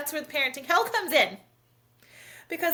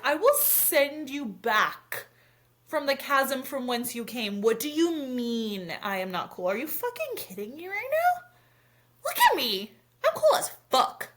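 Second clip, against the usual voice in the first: mock dramatic threat; slower than usual. Mom replaying her over-the-top comeback to her daughter. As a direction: ham it up like a wounded diva.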